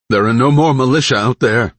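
strained, cracking plea; voice breaking. Acted. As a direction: let the voice crack under strain. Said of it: "voice breaking".

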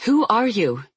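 hard, forceful demand. Acted. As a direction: insist on an answer. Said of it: "she demanded".

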